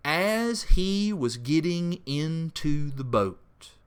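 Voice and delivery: slow reading of the verse, every word weighed; slow, weighty scripture reading. Shown as a demonstration. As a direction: read the phrase very slowly, as if underlining it. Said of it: "The very first phrase of verse eighteen says".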